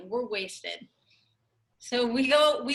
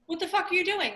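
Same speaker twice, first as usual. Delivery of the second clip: higher-pitched mock incredulous question; imitated baffled dad; 8 semitones higher, faster than usual. Dad to egg-throwing mom, imitated incredulity. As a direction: demand an explanation, as the stunned dad. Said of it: "my dad's just standing there like".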